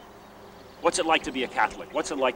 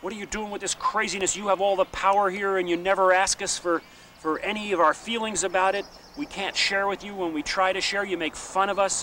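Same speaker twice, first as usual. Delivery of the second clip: retold scream; 5 semitones higher than usual. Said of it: "they're screaming at these men saying".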